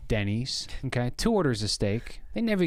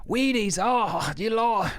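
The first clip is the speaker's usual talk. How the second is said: high exclaiming; 10 semitones higher, 4 dB louder, much slower than usual. Pretend. Mock reaction to puke contents.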